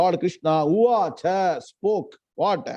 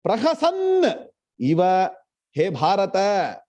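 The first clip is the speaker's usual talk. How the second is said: slow verse recital; slower than usual. Shown as a demonstration. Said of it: "Tam uvacha Hrishikeshaha".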